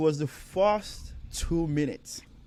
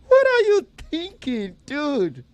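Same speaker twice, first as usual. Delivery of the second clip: much higher and louder disbelief; incredulous outburst; 13 semitones higher, 6 dB louder, slower than usual. Retold or imitated. Reacting to the comedian's line, a high incredulous cry. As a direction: shriek at the joke in disbelief. His own reaction to the joke.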